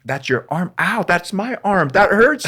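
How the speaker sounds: imitating his own squeamish reaction to surgery, in a high, rising yelp; empathetic mock pain. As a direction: squeal it like you feel their cut. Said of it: "I'm like".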